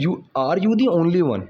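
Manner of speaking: slow, deliberate example sentence; slow teaching demo. Shown as a demonstration. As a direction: lay each word out slowly. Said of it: "तो यहाँ पे कह रहा है". (धीरे-धीरे समझाते हुए)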